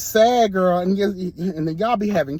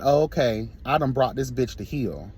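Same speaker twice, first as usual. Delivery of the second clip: smug abuser voice; 5 semitones lower, 4 dB quieter than usual. Retold or imitated. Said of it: "That's some slave master shit".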